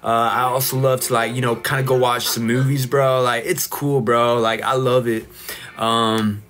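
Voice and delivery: laid-back California surfer talk; lightly voiced surfer dude from California; surfer bro. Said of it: "let me get into my surfer bro era".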